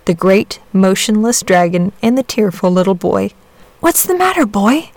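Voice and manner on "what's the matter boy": gentle, kindly question; kind inquiry. A narrator's reading. Saint George asking the crying boy, kindly. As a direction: ask kindly as a concerned saint. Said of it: "he inquired kindly".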